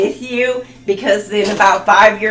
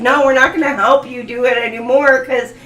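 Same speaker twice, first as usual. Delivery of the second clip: exasperated angels; 3 semitones higher, 6 dB louder than usual. Retold or imitated. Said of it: "Your angels are like".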